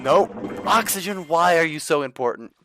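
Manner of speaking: high, loud complaint; exasperated wail. Real, not acted. Gamer drowning in game, exasperated high wail.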